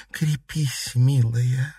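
gentle touch of compassion; sympathetic. A narrator's reading. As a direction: offer comfort to the grieving girl. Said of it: "сочувственно произнесла дама теней".

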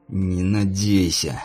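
slow, hissed through clenched teeth; through gritted teeth. A narrator's reading. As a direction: grit your teeth and spit it out. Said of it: "сквозь зубы процедил Фаргал".

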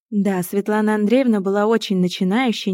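plain reading voice

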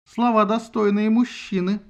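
slow, mocking remark; ironic. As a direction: needle him gently. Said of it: "иронично заметила Артемида".

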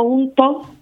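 juntos with an Andalusian aspirated h and the final s dropped, hunto; Andalusian pronunciation. Shown as a demonstration. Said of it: "castellano malamente". (juntos con acento andaluz, aspirado)

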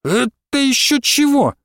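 high startled shout; old woman shouting at intruder. A narrator's reading. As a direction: bark it out in surprise. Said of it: "закричала Василиса".

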